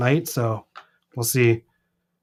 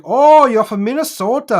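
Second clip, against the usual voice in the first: mocking people; 10 semitones higher, 6 dB louder than usual. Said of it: "everyone's like".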